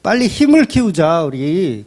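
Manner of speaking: drawn-out, mock-coaxing sarcasm; sarcastic urging. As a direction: stretch the opening words with a mild needling edge. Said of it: "그 얘기를 비꼬면서 이야기하는 거예요". (살짝 비꼬는 말투로 늘여서)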